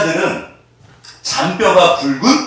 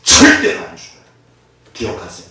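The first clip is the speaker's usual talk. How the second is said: high, loud insistent declaration; emphatic assurance; 5 semitones higher, 6 dB louder than usual. Real, not acted. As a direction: drive it home to the congregation. Preacher insists forcefully. (높고 크게 힘주어 확신하는 설교)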